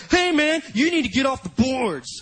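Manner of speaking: mild acted irritation; angry message. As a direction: tell him off, a touch annoyed. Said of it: "angry I Ms from Harris".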